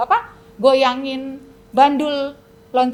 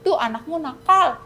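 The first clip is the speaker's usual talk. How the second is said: loud, higher jeering devil; devil mocking; 6 semitones higher, 5 dB louder than usual. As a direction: taunt like a sneering devil. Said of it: "Iblis bilang". (iblis mengejek dengan suara tinggi)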